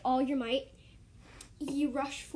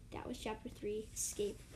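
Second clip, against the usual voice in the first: 1 whisper; 6 dB quieter than usual. Real, not acted. Closing after story.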